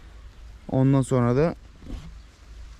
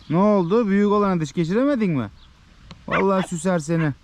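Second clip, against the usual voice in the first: higher, playful talk to the dog; half-joking talk to the dog, higher; teasing the dog; 5 semitones higher than usual. Real, not acted. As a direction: tease the dog about the bigger one.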